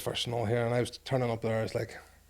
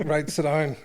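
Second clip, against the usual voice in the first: firm, louder quoted command; lightly acted, raised-voice order; retold instruction; 3 semitones higher, 6 dB louder, slower than usual. Opposing prop sits him down for a lesson, firm retold command.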